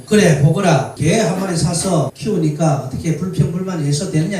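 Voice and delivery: put-on a commanding old spirit, booming at the start; the stern spirit demands an answer; mountain spirit voice. Spirit checking on the grumbler, booming and stern. Spirit questions the young man.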